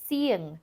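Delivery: "Seeing" with the weight on its first syllable; accent the first half of "Seeing". Shown as a demonstration. Teacher shows a two-syllable vowel, first syllable accented in "Seeing". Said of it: "the first syllable is accented".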